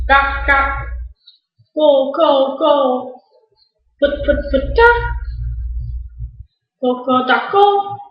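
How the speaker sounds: lightly voiced hen clucking; imitated chicken clucks. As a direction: cluck along in short repeated bursts. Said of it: "What kind of animal says".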